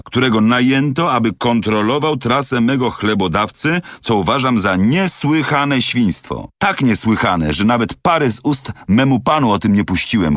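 a loyal servant bristling at an insult; valet's voice. Acted. Valet defends master, voiced.

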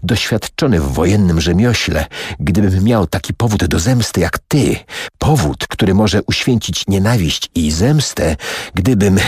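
plain reading voice

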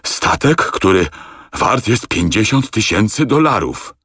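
broken, half-voiced high rasp; wheezing, barely able to speak. A narrator's reading. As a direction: force the words out through fury. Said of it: "ledwo wymawiając zgłoski". (charcząc, ledwo wymawiając zgłoski)

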